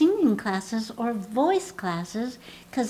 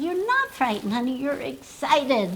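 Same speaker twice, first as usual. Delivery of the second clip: reassuring; 3 semitones higher than usual. Retold or imitated. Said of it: "I say".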